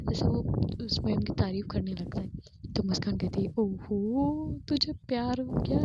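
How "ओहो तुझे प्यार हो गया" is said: teasing. Retold or imitated. Friend teasing about a crush.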